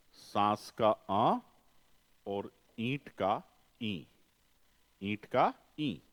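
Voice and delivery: "सांस का आ, ईंट का ई" said slowly with nasalized vowels; nasal vowel demo. Shown as a demonstration. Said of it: "Hindi में है".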